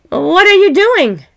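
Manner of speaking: high, loud curious question; curious passerby. A narrator's reading. Passerby asking the couple what they build, high and curious. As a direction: call over to them, curious.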